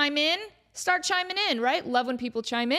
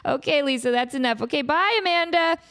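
producers wrapping up; 5 semitones higher, 3 dB louder than usual. Retold or imitated. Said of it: "they're like".

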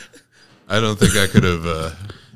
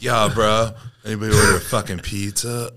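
a light, slightly louder sleazy porn star voice; mock porn star; 4 semitones higher, 5 dB louder than usual. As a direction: tease with a mock sleazy delivery. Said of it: "porn star of whatever accent".

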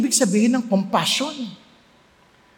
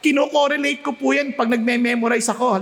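usual speaking voice

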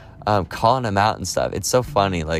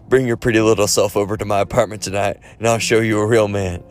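taunting tough-guy voice, pitched a bit up; Clubber Lang; 2 semitones higher than usual. Acted. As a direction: goad a rival's wife in a put-on fighter's voice. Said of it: "I'm trying to do the voice".

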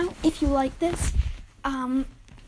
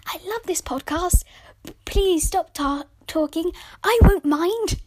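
playful fake fan message, whispered then a loud higher burst at the end; mock listener message; 5 semitones higher, 5 dB louder than usual. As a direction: pretend to be a listener, hushed then suddenly bursting out. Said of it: "send me a voice message saying".

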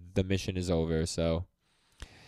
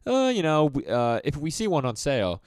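hedging; 5 semitones higher, 4 dB louder than usual. Retold or imitated. Acts father's hedging answer.

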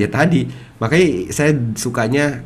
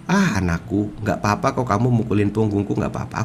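tender mother; 2 semitones lower than usual. Acted. Patient mother soothing her hitting child.

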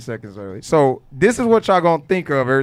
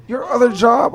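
put-on child voice; 12 semitones higher, 7 dB louder than usual. Son answering in retold talk.

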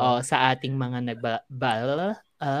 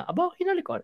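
mock shock; 4 dB quieter, faster than usual. Shocked retelling of the kiss.

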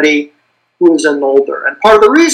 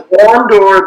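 "Corondor" with the middle syllable "ron" stressed; 3 semitones higher, 3 dB louder than usual. Shown as a demonstration. Explaining Quenya stress rules to the host, middle syllable stressed. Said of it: "the stress goes in the middle".

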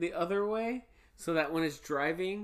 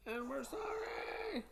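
unvoiced slow whisper; 7 semitones higher, 9 dB quieter, slower than usual. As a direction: breathe the apology. Whispered apology.

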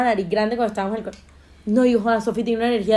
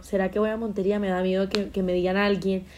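nervous inner voice; 4 semitones lower, 6 dB quieter than usual. Retold or imitated. Flying home to Montería afraid of comments, a soft nervous murmur. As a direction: lower and softer worried thought. Iba con ese miedo.

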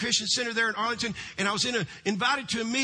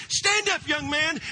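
calling out; 4 semitones higher, slower than usual. Retold or imitated. Prophet calls him to stand.

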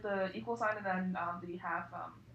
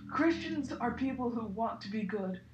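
wise explanation; 3 semitones lower than usual. Acted. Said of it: "Hagrid explained wisely".

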